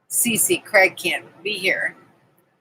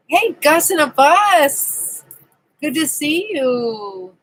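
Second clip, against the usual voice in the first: drawn-out greeting; 5 semitones higher, slower than usual. Real, not acted. Greeting viewer warmly.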